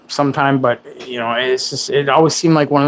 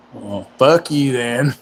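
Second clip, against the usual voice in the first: mock angry; slower than usual. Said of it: "Sorry, I'm angry".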